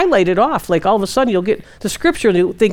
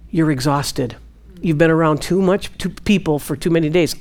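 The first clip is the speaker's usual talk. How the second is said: low, soft, calm reply; God gently answering; 6 semitones lower, 5 dB quieter than usual. Retold or imitated. God answering her tired prayer, low soft gentle. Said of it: "He said".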